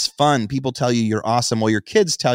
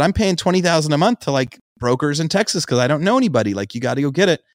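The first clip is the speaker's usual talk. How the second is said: retold urgent insisting; 6 semitones higher, faster than usual. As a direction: insist like the bills are piling up. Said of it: "And I said".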